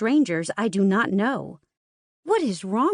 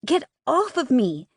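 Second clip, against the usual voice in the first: angry shout; 6 semitones higher than usual. Acted. Struggling against her captor.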